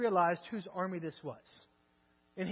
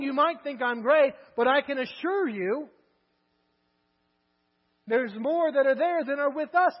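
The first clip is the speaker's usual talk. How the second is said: louder, pleading protest; exasperated servant; 2 semitones higher, 5 dB louder than usual. Acted. Servant protesting the odds to Elisha, exasperated and loud. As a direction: argue back at the prophet, worked up.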